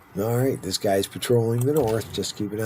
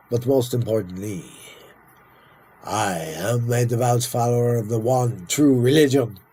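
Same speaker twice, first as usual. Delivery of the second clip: slow, stately royal proclamation; grand, drawn-out speech of a monarch; dramatic king; 2 semitones higher than usual. Acted. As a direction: declaim it like a pompous monarch, slowly. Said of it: "You're quite a dramatic fellow".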